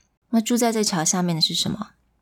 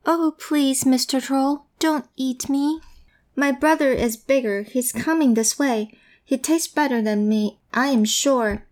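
pleading little goat; 5 semitones higher than usual. Acted. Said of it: "quickly replied".

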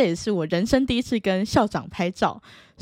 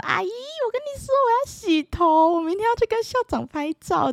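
put-on child telling the hairdresser about the photo; little girl voice. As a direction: sound like an eager little girl. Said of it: "然后骑到发廊就说".

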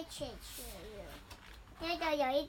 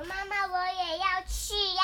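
little brother voice; 4 semitones higher, 8 dB louder than usual. Acted. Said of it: "弟弟小朋友说".

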